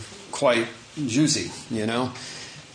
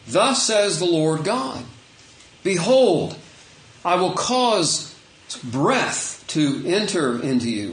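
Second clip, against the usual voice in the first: slow, measured proclamation, slightly raised; scripture reading; 3 semitones higher, slower than usual. Acted. Preacher reading God's words to the bones, slow proclamation. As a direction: read it out as a solemn declaration, drawing words out. Reads scripture aloud to congregation.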